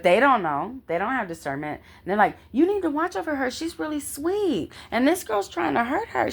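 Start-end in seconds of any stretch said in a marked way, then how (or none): 2.5-6.3 retold worried plea. Retells inmates' worried plea to guards.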